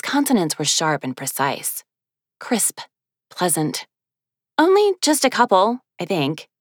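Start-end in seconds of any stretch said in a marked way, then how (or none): 4.6-6.5 sheepish. Acted. Woman sheepishly minimizes.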